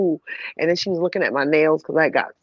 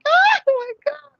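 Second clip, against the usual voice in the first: laughing; 4 dB louder than usual. Real, not acted. Losing it at the screening.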